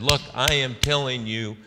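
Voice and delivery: emphatic imitated insistence, easing toward the end; intense. Senator rebuking a reporter over Lincoln, mildly intense. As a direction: retell a firm telling-off, stressing each point. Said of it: "And then she really, the fist started flying".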